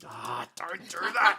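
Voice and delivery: high, drawn-out cry of protest; loud protest. Real, not acted. Host to companion who blurted out a title, loud protest. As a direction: loudly beg them to stop.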